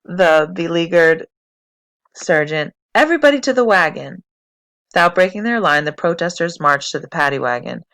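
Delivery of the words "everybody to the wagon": order. Acted. Sergeant ordering arrests.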